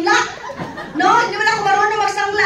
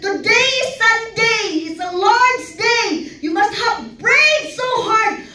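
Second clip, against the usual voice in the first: slow, sing-song sermon voice; drawn out like a pulpit call; imitating a preacher on the Lord's day; mock preacher; 4 semitones higher, slower than usual.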